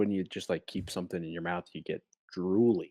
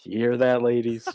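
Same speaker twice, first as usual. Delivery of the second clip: laughing shout; 5 semitones higher, 10 dB louder than usual. Real, not acted. Laughing call out to listeners.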